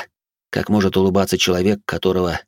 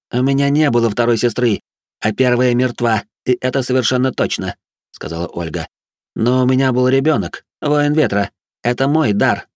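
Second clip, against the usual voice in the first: mad noblewoman voice; 5 semitones higher than usual. Acted. Batori explains her gift.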